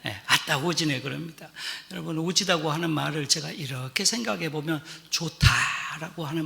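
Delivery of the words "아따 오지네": Jeolla dialect mother. Retold or imitated. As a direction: say "아따, 오지네" gently as a doting Jeolla mother. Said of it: "전라도 말로 그대로 우리 어머니 흉내를 내볼게요".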